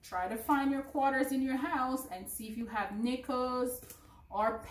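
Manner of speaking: loud, high and cheerful goodbye; bright kids show sign-off. Acted. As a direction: beam it out to the kids. Cheerful sign-off to young learners.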